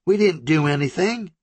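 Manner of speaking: high, pleading, stuck on DIDN'T; shaking denial again. Acted. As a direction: repeat it numbly in fear, leaning on didn't. Country repeats her denial.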